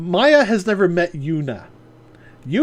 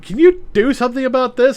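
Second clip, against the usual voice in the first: woman voice; 9 semitones higher, 6 dB louder than usual. Retold or imitated. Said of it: "she's like".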